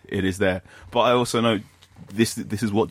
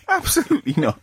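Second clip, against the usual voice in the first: high, laughing absolutely not; giggling no way; laughing refusal. Real, not acted. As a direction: say it again while laughing.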